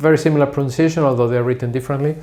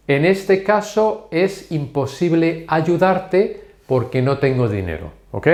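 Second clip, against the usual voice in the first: slow model sentence; 3 semitones higher than usual. Shown as a demonstration. Teacher gives learners an illustration example, slowly. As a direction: set out the example slowly, pitched up.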